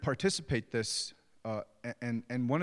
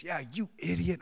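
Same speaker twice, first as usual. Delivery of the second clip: high-pitched imitation of his little boy; young son echoing dad; 7 semitones higher than usual. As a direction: copycat kid joining in the insult. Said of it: "And then my son goes".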